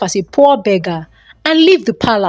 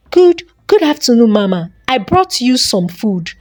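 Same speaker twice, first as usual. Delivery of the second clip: with a smile. Acted. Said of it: "said with a smile".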